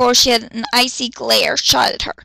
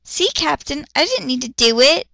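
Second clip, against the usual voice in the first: beaming; 3 semitones higher than usual. Acted. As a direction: gloat cheerfully. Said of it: "Matsumoto beamed".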